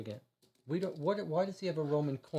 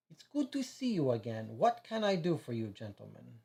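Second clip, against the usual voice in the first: put-on a light French accent, friendly; friendly vice consul with a touch of French; slight French accent; 3 semitones lower than usual. Vice consul greeting detectives, lightly French-accented. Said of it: "He has a slight French accent".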